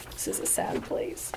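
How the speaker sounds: very soft, voiceless murmur; hushed whisper. Acted. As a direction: say it under your breath. Hushed remark amid the raid.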